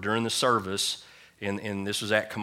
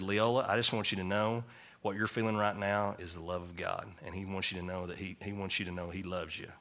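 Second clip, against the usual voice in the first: gentle reassurance; 5 dB quieter than usual. Retold or imitated. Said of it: "And so I just said".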